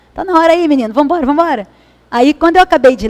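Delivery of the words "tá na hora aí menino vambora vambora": light retold call to hurry up; mild mock calling out. Narrator imitates her father hurrying the grandchildren, in a light mock call. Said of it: "começa a gritar o povo dentro de casa".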